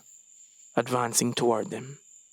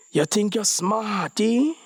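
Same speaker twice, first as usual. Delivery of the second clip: chuckling disbelief; 9 semitones higher, 4 dB louder, slower than usual. A narrator's reading. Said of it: "chuckled the officer in disbelief".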